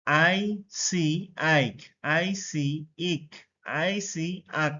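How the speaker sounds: teacher contrasting আইক, ইক and আক, hard k at the end; measured drill, pause before আইক, ইক and আক; combined pronunciation drill. Shown as a demonstration. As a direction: spell আইসি before each reading: আইক, ইক, আক with eye, ee, ah. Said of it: "সেগুলো একসাথে উচ্চারণ করব".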